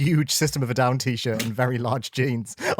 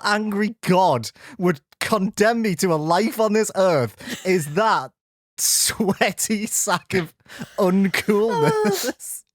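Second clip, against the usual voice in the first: mock despair; 5 semitones higher, slower than usual. Mock despair about teenage self.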